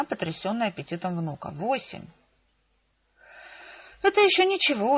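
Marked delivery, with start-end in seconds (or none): 1.5-2.1 softer, hushed disbelief; amazed whisper. A narrator's reading. Mother amazed at her grandson's appetite, half-whispering. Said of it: "прошептала она". 4.0-5.0 high, light reassurance; consoling. A narrator's reading. Daughter comforts her astonished mother, consoling. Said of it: "утешила я её".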